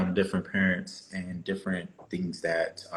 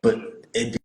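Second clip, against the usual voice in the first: hammy stage actor. Pretend. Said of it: "put on my acting voice".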